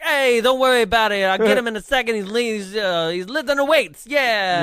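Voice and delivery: brash fake voice, covering for his friend; Gus's fake tough guy. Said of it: "decides to do a third impression".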